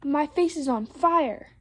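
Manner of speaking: slow, emphatic mock outcry; storybook yell of distress; yelled alarm. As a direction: draw out the alarm. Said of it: "he yelled".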